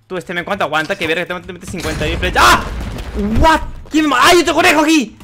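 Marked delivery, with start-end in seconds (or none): 2.5-5.2 high startled yell at another rabbit; surprised shout. Real, not acted. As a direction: shout it out, caught off guard. Sorpresa al ver otro enemigo. (grito de sorpresa)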